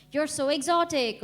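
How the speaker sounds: a hint of a fawning Brit; mock British stranger. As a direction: gush it like a nosy stranger. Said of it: "It's always something like".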